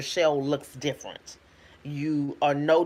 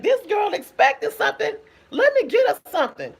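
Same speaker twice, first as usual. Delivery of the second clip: God's voice; 5 dB louder than usual. Retold or imitated. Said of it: "So God can be like".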